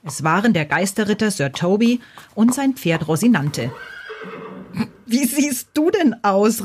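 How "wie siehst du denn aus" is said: slow, high, amused ghost's exclamation; hammed-up amused ghost voice; laughing call. A narrator's reading. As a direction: call out in drawn-out mockery, pitch raised. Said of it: "rief das Gespenst und lachte".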